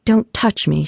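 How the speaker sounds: mild contempt; spat. Acted. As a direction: spit the words at him, lightly voiced. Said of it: "she spat".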